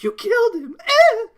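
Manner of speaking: high, loud mock yell; hammed-up high yell. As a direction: shriek it like a movie heroine. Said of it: "yelling at".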